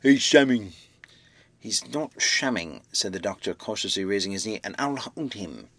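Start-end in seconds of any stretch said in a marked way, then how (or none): 0.0-0.7 loud rough working man's shout; navvy shouting. Acted. 1.6-2.8 thick speech. Acted. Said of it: "He spoke thickly because of a bleeding lip". 4.6-5.7 thick speech. Acted. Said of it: "He spoke thickly because of a bleeding lip".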